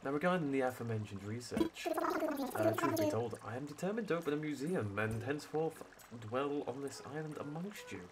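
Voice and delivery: a lightly voiced stuffy professor owl; hint of a posh museum curator; sophisticated tone. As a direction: read it like a pompous scholar, barely shifted. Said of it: "a bit of a more sophisticated tone".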